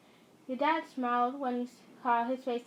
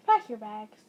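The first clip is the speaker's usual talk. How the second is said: firm command; 3 semitones lower, 7 dB louder than usual. Acted. Commanding mother to leave.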